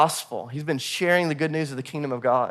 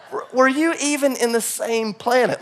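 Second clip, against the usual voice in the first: laughing disbelief; 6 semitones higher than usual. Retold or imitated. Laughing retort to Mike.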